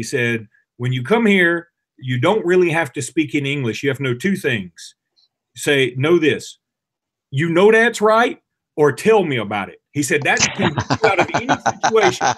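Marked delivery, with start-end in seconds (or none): 0.8-9.8 put-on French accent. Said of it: "I don't even know if that's a good French accent". 10.2-12.3 put-on French accent. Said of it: "I don't even know if that's a good French accent".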